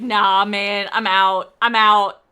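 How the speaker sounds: loud, hammed-up panic as the fleeing monster; mock scared monster. Streamer voicing the scared Sin Eater, loud hammed-up panic. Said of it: "He was like".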